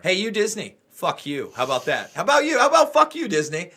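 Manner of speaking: escalating shout at Disney; angry rant. Real, not acted. Podcast host yelling at Disney, angry mock rant. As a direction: start gruff, then yell it high.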